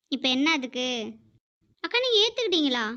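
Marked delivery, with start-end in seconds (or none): 1.8-2.9 put-on high, startled question to an older sister figure; shocked disbelief. Neighbour Rani can't believe grandma took her daughter back, shocked and high. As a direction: gasp it out in disbelief.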